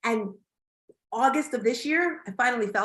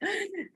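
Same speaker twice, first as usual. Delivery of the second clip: short real laugh letting tension out; released laugh; 7 semitones higher, 8 dB quieter than usual. Real, not acted. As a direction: laugh it out to recover. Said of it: "inhale and laugh it out".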